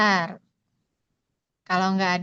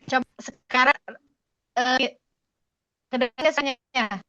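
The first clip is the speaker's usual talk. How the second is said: glitchy robotic call audio; choppy distorted connection voice; half robot voice; 3 semitones higher than usual. Real, not acted. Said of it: "Rinsun suaranya kayak robot lagi".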